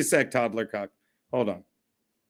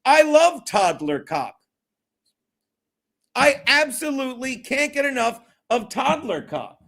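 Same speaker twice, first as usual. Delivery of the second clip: loud and proud; 4 semitones higher than usual. Pretend. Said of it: "I gotta say it loud and proud".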